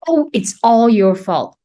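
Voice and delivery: imitating herself scolding her daughter. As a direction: replay the snap at the daughter, half-hearted. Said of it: "I raised my voice at her".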